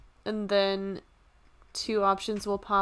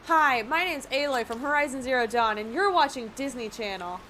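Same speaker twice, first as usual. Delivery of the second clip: Disney channel bumper; 4 semitones higher than usual. Pretend.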